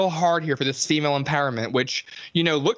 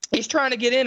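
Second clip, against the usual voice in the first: mock whiny girl; 9 semitones higher than usual. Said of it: "And I'm like".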